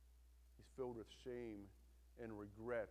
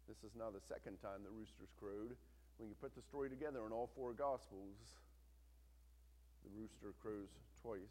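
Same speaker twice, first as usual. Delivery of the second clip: usual speaking voice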